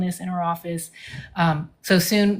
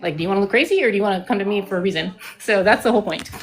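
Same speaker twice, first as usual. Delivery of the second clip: out of breath; faster than usual. Real, not acted. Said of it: "I'm getting out of breath".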